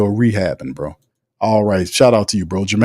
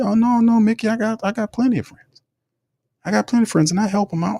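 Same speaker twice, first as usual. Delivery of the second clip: mock indignant reply; 12 semitones higher, faster than usual. Speaker's mock reply to imitated GM.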